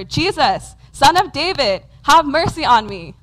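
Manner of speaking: insistent calling to someone out of sight; crying out repeatedly. Acted. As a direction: call out over and over for mercy. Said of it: "he keeps crying out over and over".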